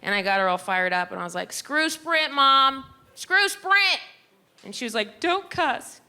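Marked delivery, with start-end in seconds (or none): 1.5-4.0 high, louder rallying cry; egging her mom on. Retold or imitated. Daughter getting her mom fired up against Sprint, loud. 5.2-6.0 high scolding mom voice; imitating her prim mom. Mom scolding her daughter for swearing, high.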